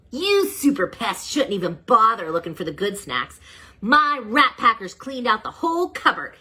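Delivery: lightly voiced rat villain bragging; sneering rat villain. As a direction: gloat like a cocky rat boss. Whiskerface villain voice.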